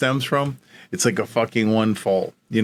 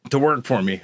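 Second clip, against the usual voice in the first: eager offer; 6 semitones higher than usual. Retold or imitated. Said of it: "He goes".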